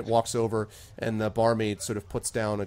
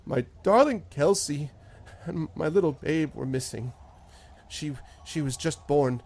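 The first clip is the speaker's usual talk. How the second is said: a hint of a broken, pleading farmer; lightly voiced farmer mourning his family; grieving farmer. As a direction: voice him close to tears, halting.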